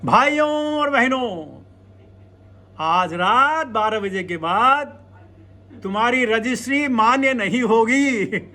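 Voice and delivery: जोशीला भाषण, नकल करते हुए; Modi speech impression. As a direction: rattle off a mock national announcement. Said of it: "Modi ji comes and says".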